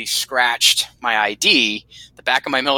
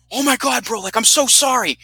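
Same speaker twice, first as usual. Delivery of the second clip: mock apology; 11 semitones higher than usual. Steve apologizing for injury.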